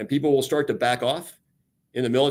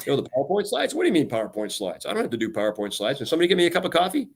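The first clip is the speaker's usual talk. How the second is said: scoffing, spoiled brass brushing off the grunt work; mock entitled officer; 2 semitones higher, faster than usual. Mocking a retired officer who expects service, entitled and dismissive. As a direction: play the pampered ex-officer asking for coffee, fast at the end.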